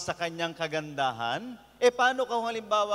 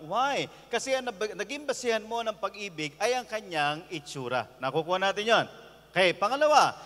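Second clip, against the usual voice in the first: ordinary talk, nothing marked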